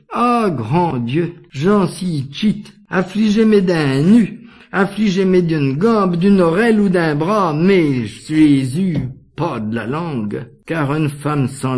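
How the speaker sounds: acted fervent plea to heaven; pleading prayer. Wife begs God to spare her tongue, pleading prayer.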